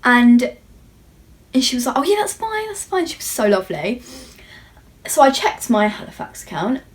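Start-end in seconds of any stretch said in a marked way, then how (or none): 2.0-3.1 higher, softer, sweetly obliging; imitating sweet assistant. The Chanel assistant letting her check her app: high, soft and sweet. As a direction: play the friendly shop lady reassuring her, light and high.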